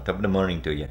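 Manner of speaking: mock Irish accent. Husband attempts Scottish for his wife, lands on mock Irish accent. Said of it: "That's Ireland".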